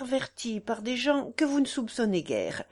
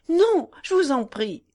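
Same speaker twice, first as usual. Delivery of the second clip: a louder, pleading cry; 5 semitones higher, 5 dB louder than usual. A narrator's reading. Wife begging her husband not to leave, crying out. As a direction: throw the no at him to stop him. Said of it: "s'écria-t-elle".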